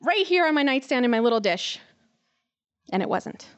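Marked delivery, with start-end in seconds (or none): 0.0-1.8 much higher, eager hopeful thought; bubbling expectation on waking; excited thought of finding the ring; retold excitement. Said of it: "all excited thinking".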